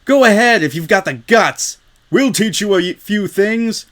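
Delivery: a bully itching for a fight; threatening tough. Acted. Crowd tough threatens Rainbow, menacing.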